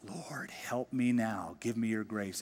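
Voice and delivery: soft hushed whisper to God; whispered prayer. Acted. Nehemiah secretly praying before the king, whispered. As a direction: pray it under your breath.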